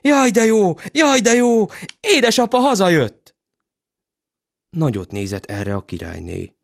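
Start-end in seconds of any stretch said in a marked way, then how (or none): 0.0-3.3 put-on high joyful children; cheering. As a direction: cheer it out delighted. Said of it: "felújjongtak".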